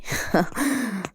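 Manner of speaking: brief, amused chuckle; mocking laugh. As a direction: chuckle at the irony. Scoffs at the discovery. (ضحكة ساخرة خفيفة)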